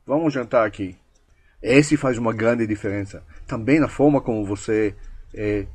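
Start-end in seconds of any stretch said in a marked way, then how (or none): 0.0-1.0 subtle command. Shown as a demonstration. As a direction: state it as settled, not as a question. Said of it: "você comanda de uma forma bem sutil".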